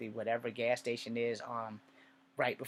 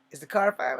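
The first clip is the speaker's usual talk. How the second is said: worried aunt; 8 semitones higher, 8 dB louder than usual. Retold or imitated. Aunt asks about the car.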